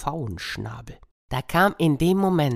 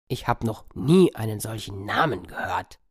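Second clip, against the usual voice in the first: dog voice; 4 semitones lower than usual. Acted. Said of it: "sagte der Hund".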